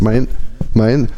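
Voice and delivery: halting, sneeze building up; words cut off by a coming sneeze; about to sneeze. Real, not acted. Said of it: "Entschuldigung, ich muss niesen". (kurz vor dem Niesen)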